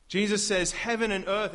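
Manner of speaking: rising sermon fervor; preaching loud. Acted. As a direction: proclaim it with full force. Preacher builds to Jesus' words.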